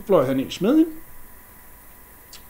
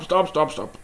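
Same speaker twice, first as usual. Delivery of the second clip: fading shout; 3 semitones higher than usual. Acted. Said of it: "kommer og råber".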